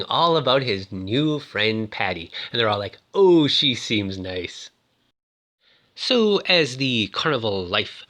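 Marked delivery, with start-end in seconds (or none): 3.1-4.7 slow, drawn-out mock approval; mock approving. Family reacting to Navin's new friend, mock approval.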